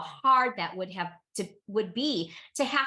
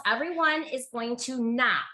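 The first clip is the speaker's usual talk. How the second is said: ordinary delivery, nothing marked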